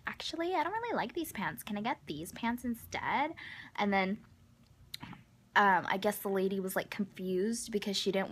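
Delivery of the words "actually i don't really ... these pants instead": put-on fussy old man. Old man changes order.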